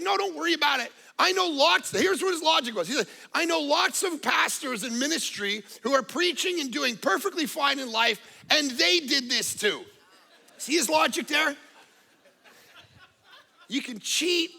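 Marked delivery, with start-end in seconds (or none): 0.0-9.8 breezy reassurance. Retold or imitated. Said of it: "He's like".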